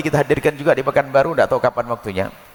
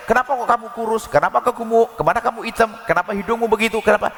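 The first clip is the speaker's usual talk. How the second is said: higher, nagging string of jabs; mocking sharp-tongued spouse; 6 semitones higher, faster than usual. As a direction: needle the partner with petty questions, voice raised in pitch. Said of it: "orang mulutnya tajam".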